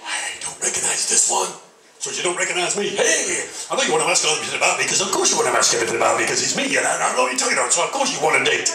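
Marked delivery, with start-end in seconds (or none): 3.7-8.7 cocky, fast self-promotion, laughing through it; smug boasting. Acted. Frankenstein boasting to his date, smug and fast. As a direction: sell yourself like a vain monster.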